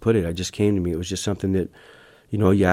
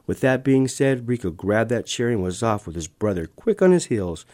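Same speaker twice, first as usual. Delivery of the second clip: story reading; 3 semitones higher than usual. Acted. Author reading the ants' chase, animated storytelling. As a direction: read the chase aloud with rising excitement. Narrates his children's book.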